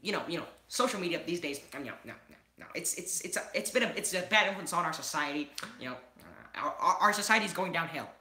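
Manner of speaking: Liam impression. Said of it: "this is my impersonation of Liam".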